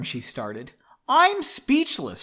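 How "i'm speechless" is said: high, drawn-out exclamation; mild yell. A narrator's reading. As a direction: raise it high, stretching the words. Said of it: "Pauline yelled".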